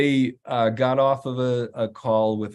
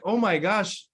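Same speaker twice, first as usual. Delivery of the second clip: awed gasp; 9 semitones higher than usual. Retold or imitated. Client moved.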